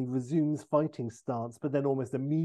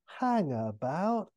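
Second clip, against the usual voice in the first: Austin Powers; 4 semitones higher, slower than usual. Acted. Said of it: "And Austin's like".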